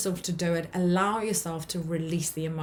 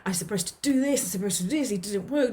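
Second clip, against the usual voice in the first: overwhelmed and frustrated; 4 semitones higher, faster than usual. Acted. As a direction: rush it out as if swamped. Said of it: "I feel a little bit overwhelmed, frustrated".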